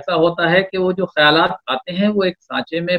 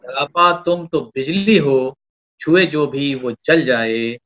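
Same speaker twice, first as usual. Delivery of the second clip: poetry recitation. Acted. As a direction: lean into each line of verse. Poet recites a couplet.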